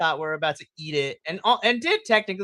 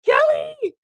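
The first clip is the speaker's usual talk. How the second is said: much higher, loud squealing cheer; ecstatic shout; 7 dB louder, much slower than usual. Retold or imitated. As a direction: yell her name in delight. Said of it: "I was like".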